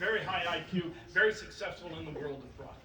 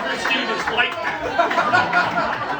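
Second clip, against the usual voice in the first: laughing hard; 10 semitones higher, 12 dB louder, much slower than usual. Real, not acted. Laughing after punchline.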